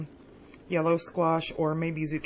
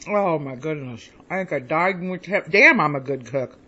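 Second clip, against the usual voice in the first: delighted; 4 semitones lower, 5 dB louder than usual. Real, not acted. Tasting her own ribs.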